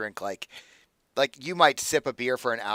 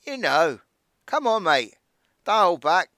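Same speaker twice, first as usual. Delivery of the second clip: put-on drunkenly slurred, high and loud; slurred drunk; 6 semitones higher, 6 dB louder than usual. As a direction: slur it like he's wasted. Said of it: "it's so slurred you can barely understand it".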